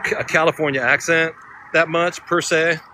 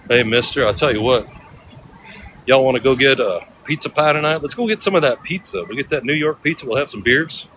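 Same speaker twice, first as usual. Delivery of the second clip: a hint of Texas country twang; easygoing Texas accent, only lightly put on. Shown as a demonstration. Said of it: "I could slip into a Texas accent pretty quick".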